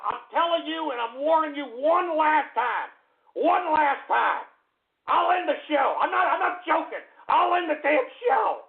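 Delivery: rising, heated ultimatum; exasperated threat; angry warning. Real, not acted. Threatens to end the show.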